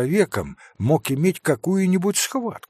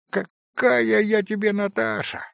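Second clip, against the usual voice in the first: higher, indignant market-woman retort; shrill retort; 7 semitones higher than usual. A narrator's reading. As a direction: snap back at the cheeky boy, higher. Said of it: "крикливо ответила торговка". (крикливо, выше, с возмущением)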